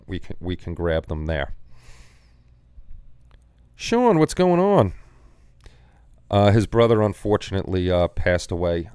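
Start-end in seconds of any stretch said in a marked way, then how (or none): 3.8-4.9 high, loud, slow sing-song hello; drawn-out greeting. Real, not acted. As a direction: stretch out a cheery hey. Greeting a viewer in chat.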